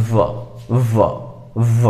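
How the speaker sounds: বhard aspirated bh sound, repeated; demo sound bh. Shown as a demonstration. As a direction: say ভ with a strong breathy b. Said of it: "এর উচ্চারণ আসলে এরকম".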